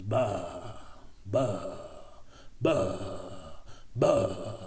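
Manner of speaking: bleating like sheep, mocking; mock sheep bleats. Vlogger mocking anti-maskers as sheep with mock bleating. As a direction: bah it out like a sheep. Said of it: "I don't know how it fucking goes".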